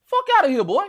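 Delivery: high, loud burst of scorn; scornful dismissal. Real, not acted. Veteran gamer dismissing a young challenger, loudly scornful.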